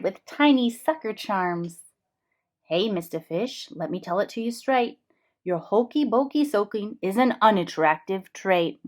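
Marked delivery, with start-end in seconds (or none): 2.6-8.8 lightly voiced straight-talking octopus; blunt octopus. The octopus giving the fish blunt advice. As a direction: tell it to him straight.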